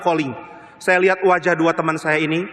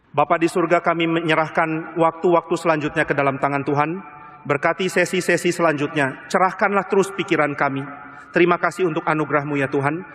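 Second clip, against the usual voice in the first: slightly lowered, even praying voice; closing prayer; 3 semitones lower than usual. Real, not acted. Pastor praying to God for the coming sessions, subdued prayer. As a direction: lead a congregation in restrained prayer.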